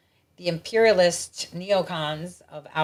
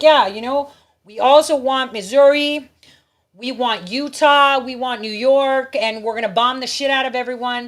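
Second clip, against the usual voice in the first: mock demanding; 3 semitones higher, 6 dB louder than usual. Retelling land-grabbers listing what they want, mock demanding. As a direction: make brash, stretched-out demands in a mimicking voice.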